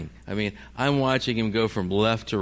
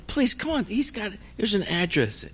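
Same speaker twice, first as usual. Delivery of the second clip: tag pleading; 7 semitones higher than usual. Retold or imitated. Begging police to act.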